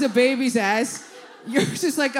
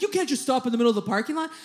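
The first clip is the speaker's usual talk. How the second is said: angry driver; faster than usual. Retold or imitated. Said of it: "he's like".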